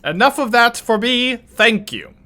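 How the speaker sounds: high, huffy chat viewer voice; a chatter storming off in a sulk; Twitch chatter accent. Retold or imitated. Streamer mimicking a fed-up Twitch chatter, high huffy voice. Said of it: "Twitch chatter accent".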